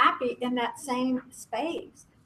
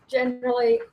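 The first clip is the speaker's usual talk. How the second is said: Generally jumps much higher in pitch; high lilting generally; 12 semitones higher, 4 dB louder than usual. Real, not acted. Group leader lifting her voice on the next mood, Generally sung high. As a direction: lift Generally up high, a playful turn. Listing her moods in turn.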